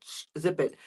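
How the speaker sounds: soft, low shush; quiet the cat under your breath; hushed shushing. Acted. Owner silences the meowing cat, hushed.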